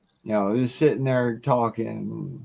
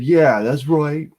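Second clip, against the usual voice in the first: slow, louder smug gloat; 3 semitones higher, 5 dB louder, slower than usual. Retold or imitated. Bar guy gloats as the son sits down, slow smug. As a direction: drag it out smugly, rubbing it in.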